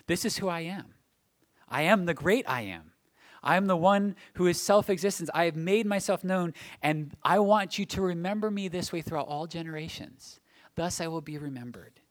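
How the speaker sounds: God declaring his name. Acted. Preacher voicing God's words to his people, solemn declaration. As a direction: proclaim it as God's own self-declaration. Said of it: "He says".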